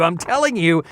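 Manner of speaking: ordinary delivery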